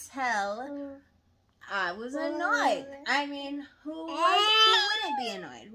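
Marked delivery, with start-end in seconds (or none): 3.8-5.7 squeaky, much higher and louder rhetorical plea; high-pitched plea. Real, not acted. Wife asking her husband to agree, squeaky high plea. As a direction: squeal it, begging them to side with you.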